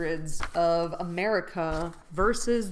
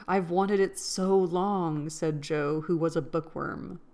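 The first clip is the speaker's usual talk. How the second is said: reading a classic novel aloud, measured and clear; story narration. Acted. Reading Little Women aloud to her viewers, story narration. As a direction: read the chapter out like an audiobook.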